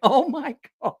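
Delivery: high-pitched, laughing exclamation. Real, not acted. Teller overcome by Paulo's delight in the train, high laughing voice. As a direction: crack up on the words. Cracking up at own retelling.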